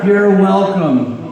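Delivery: slow, stretched smug thanks; milk the second you're welcome; slow self-satisfied gloat; drawn-out smug sign-off. Acted. Repeated slower sign-off.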